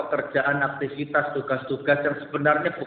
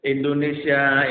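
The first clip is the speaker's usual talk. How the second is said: loud slow cry of Indonesia; drawn-out loud appeal; lament call; 2 semitones higher, 6 dB louder, slower than usual. Real, not acted. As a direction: call out to the country.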